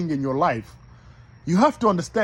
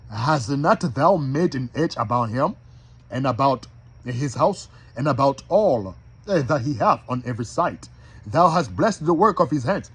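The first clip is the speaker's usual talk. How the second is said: measured, lower-pitched scripture reading; slow careful re-reading; 5 semitones lower than usual. Shown as a demonstration. Preacher re-reads the verse so listeners can understand, slow and deliberate. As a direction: read it out deliberately, pausing between phrases. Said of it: "Let me read that again slow".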